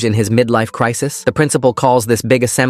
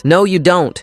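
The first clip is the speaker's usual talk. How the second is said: high-pitched sharp objection; acted protest from an upset parent; indignant parent; 8 semitones higher than usual. A narrator's reading. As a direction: cut in with raised pitch. Parent cuts off the superintendent.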